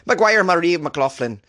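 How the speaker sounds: high, drawn-out mock Irish accent. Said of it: "What do you think of this Irish accent".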